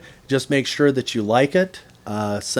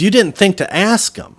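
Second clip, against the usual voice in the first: high, loud pointed question; acted incredulous challenge; 10 semitones higher, 8 dB louder than usual. Butcher challenges customer for not asking, loud and incredulous. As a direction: imitate the butcher rubbing it in.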